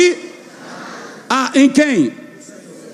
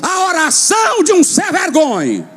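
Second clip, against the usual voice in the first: indignant shout; 4 semitones higher than usual. Real, not acted. Preacher rebuking the shameless, with an indignant shout. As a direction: call out the shameless.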